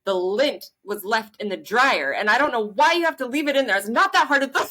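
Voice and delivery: a mock irritated wife ramping up; wife nagging husband about dryer lint; wife's complaint. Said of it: "she's like".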